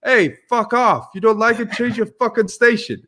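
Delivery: hammed-up angry boxer telling him off; Mike Tyson impression. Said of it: "He goes".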